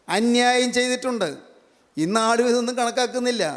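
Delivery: high, sustained preaching voice; declamatory sermon delivery. Real, not acted. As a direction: proclaim it phrase by phrase to a congregation. Preacher expounds the verse.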